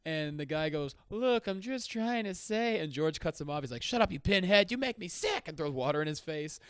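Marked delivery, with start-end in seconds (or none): 1.1-2.8 high, drawn-out mock protest; pleading talk-show guest. Devil-dressed guest tries to explain to the host, in a high mock plea. 3.8-5.5 high, loud imitation of an irate host; mock angry outburst. George cuts off his guest on the show, in a mock angry shout.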